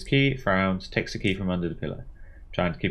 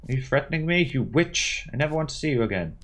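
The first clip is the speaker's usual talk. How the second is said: angry accusation; 5 semitones higher than usual. Acted. Clarissa accusing Veronica.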